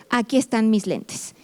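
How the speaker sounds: a mother muttering as she searches for her glasses; mom hunting for glasses. Retold or imitated. Mother acting out a search for her lost glasses, mildly flustered.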